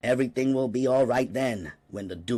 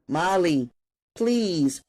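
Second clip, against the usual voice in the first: put-on higher, pleading teen with a touch of panic; panicky plea; 9 semitones higher, slower than usual. A narrator's reading. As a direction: beg her, a little scared. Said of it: "Leslie's voice was tinged with panic".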